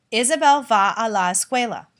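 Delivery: "Isabel va a la escuela" falls on escuela; plain falling statement; statement tune. Shown as a demonstration. Teacher repeating the statement, falling tune. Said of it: "the subject always comes first in a statement".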